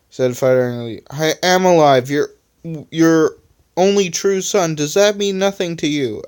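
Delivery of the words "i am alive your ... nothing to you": mild anger. Acted. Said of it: "asked Electronic angrily".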